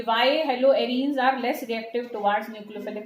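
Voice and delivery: very slow, word by word, for students to write; slow dictation. Shown as a demonstration. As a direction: dictate it slowly so they can copy. Teacher dictates the question. (धीमे-धीमे notes लिखवाना)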